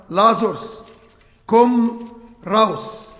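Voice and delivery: calling out with power; loud voice. Retold or imitated. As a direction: call Lazarus out of the tomb with authority. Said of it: "hatte Jesus mit hoher Stimme".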